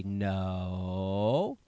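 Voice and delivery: long, low, even "No" that curls up at the end; slow parental no, held and steady; drawn-out warning no. Retold or imitated. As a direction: stretch out a calm, low no to a toddler. Parent telling toddler no again.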